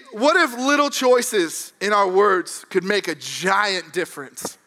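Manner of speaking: preaching. Real, not acted. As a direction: drive the point home to the congregation. Preaches the point after story.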